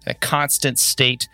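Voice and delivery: slow, ominous game master recap; dramatic recap narration. Acted. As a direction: draw them into the danger, slowly.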